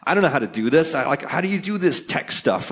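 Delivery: lightly voiced clueless user; playing dumb. A caller plays dumb to the help desk, a touch helpless. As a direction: ask it like you know nothing about tech. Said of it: "act kinda, you know, less intelligent".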